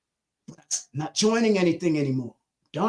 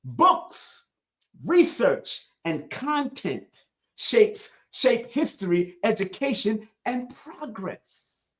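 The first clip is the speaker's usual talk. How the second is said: 1 slower repeat; much slower than usual. Shown as a demonstration. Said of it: "Let me say that again".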